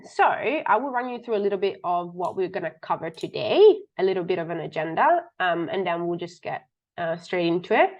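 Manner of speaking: slightly muffled, sick-sounding voice. Real, not acted. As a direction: talk through a muffled, under-the-weather voice. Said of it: "apologies if my voice is a bit muffled".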